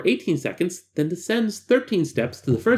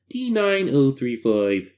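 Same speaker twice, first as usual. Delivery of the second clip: slow, lightly froggy character voice; a hint of a puppet frog; Kermit-ish voice; 3 semitones lower, slower than usual. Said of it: "Maybe it's a bit Kermit the Frog?".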